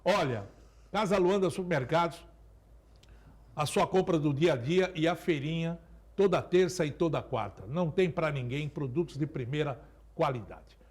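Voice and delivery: upbeat supermarket ad read; market barker. Acted. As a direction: sell the deals like a market barker. Sponsor ad read mid-show.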